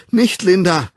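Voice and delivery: loud, high cry to stop; angstvolles Flehen. A narrator's reading. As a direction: cry out, bracing for a blow. Child cries out before blow. (laut und hoch flehen)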